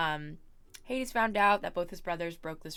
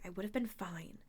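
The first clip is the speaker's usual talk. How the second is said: whispering; 6 dB quieter than usual. Acted. Annabeth quietly insisting.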